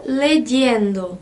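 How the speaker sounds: leyendo slowly, y as a hard j-like dy; Spanish y sound. Shown as a demonstration. Teacher giving the gerund of leer, slow leyendo with hard y. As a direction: model leyendo as le-DYEN-do, slowly. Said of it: "ele tem um Y".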